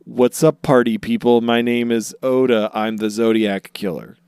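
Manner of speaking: loud, hammed-up hype intro; mock announcement. Joking fan theory read out as a loud mock greeting. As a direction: shout it like a party host introducing himself. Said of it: "it spells out".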